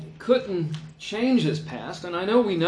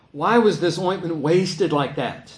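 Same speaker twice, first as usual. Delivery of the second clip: a mock-indignant complaint, a touch louder; indignant grumble; 4 dB louder than usual. The grumblers at the table scoff at the wasted ointment, mock indignant. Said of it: "said to themselves indignantly".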